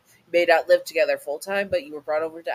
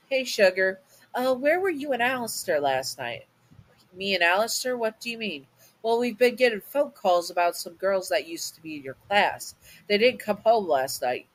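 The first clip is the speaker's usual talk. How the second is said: lightly voiced Southern mama, a bit higher; a hint of a caring mother, pitched up; mama's voice; 4 semitones higher than usual.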